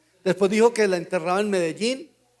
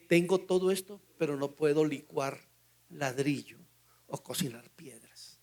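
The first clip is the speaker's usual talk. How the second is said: retold tearful plea; 4 semitones lower, 7 dB quieter than usual. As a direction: let it sink to a near sob, mildly. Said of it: "y me lo dijo llorando". (súplica llorosa que se apaga, suave y lenta al final)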